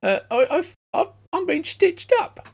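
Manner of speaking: pining halfling, high; high hobbit voice. Acted. Kenku tells the cop about his patron.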